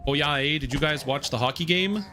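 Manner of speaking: hammed-up Canadian hockey-fan accent. Streamer showing off Canadian heritage as a hockey fan, mock Canadian accent. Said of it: "Canadian heritage known better".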